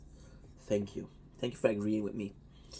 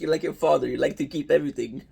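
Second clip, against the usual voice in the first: mom voice; 2 semitones higher, 4 dB louder, faster than usual. Retold or imitated. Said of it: "she's like".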